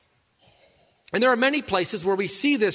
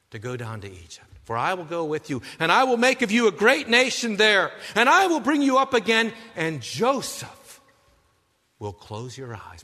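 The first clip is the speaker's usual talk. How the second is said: reassuring God. Retold or imitated.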